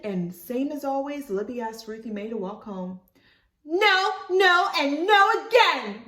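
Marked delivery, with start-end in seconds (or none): 3.6-6.0 high, loud, firm no; angry refusal. Acted. Ruthie Mae refusing Libby, angry and loud. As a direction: shut her down. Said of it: "Ruthie Mae glared at her".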